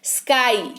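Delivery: "स्काई" as one syllable with a long falling ending; pronunciation demo. Shown as a demonstration. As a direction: model "स्काई" in one go, drawing out the final vowel. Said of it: "कैसा sound किया?".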